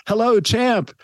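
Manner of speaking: high-pitched mock yell; imitated excited yell. Driver yelling out his bus window to the champ, imitated excited yell. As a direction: call it out high, like an excited fan. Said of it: "and he yelled".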